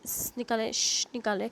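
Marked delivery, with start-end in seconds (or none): 0.1-0.3 स as a lone hissed consonant; isolated स sound. Shown as a demonstration. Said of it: "जो भी हम साउंड निकालें". 0.7-1.1 श as a lone hushing consonant; isolated श sound. Shown as a demonstration. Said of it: "जो भी हम साउंड निकालें".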